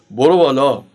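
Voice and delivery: low, curt tough-guy command; thuggish Reza Shah. Retold or imitated. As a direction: play a street tough giving a short order. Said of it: "دوباره با همون حالتش گفت".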